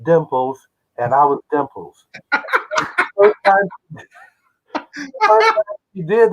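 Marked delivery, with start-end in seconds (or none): 0.0-0.7 higher, lightly sung "hello" greetings; a singer's rendition of a show tune. Retold or imitated. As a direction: a singer greets each cast member from the steps. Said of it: "she says".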